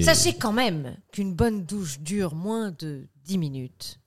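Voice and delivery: slow sultry hotline voice; lightly seductive hotline voice; phone sex voice. Acted. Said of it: "ça fait quand même téléphone rose".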